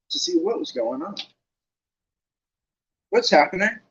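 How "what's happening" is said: higher, puzzled question; puzzled Ron. Acted. Ron asks Harry why he isn't playing, puzzled. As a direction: ask in confusion. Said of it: "Ron asked Harry".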